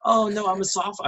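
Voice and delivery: high-pitched imitation of a girl; protesting freshman girl. Freshman girl bluffing at the door, imitated in a high voice. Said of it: "girls would be like".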